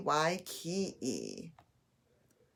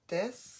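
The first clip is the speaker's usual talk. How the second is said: "Dislike" as dis, long pause, like; split into syllables; 3 semitones higher, 4 dB quieter than usual. Shown as a demonstration. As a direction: leave a long gap inside "Dislike" after dis. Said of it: "Two syllables".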